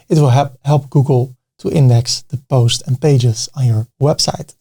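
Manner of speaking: stumbling over a repeated word; stuttering. Real, not acted. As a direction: catch and repeat a word mid-sentence. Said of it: "I'm stuttering a bit".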